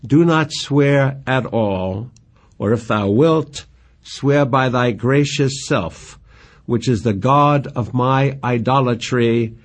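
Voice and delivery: slow, measured verse recital; reciting Shakespeare with care; poem reading. Acted. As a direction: read the lines like a lover's plea. Reads Juliet's verse aloud.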